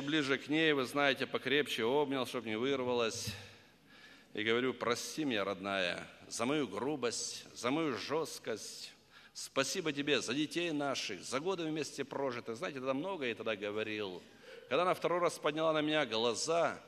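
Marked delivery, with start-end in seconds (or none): 4.7-12.5 soft, slow, lowered apology; husband holding his wife, asking forgiveness; tender apology. Retold or imitated. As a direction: ask forgiveness gently.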